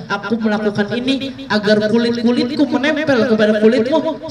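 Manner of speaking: mild retold weeping plea; tearful plea. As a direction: plead through tears, voice lifted. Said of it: "Ukashanya juga sambil nangis".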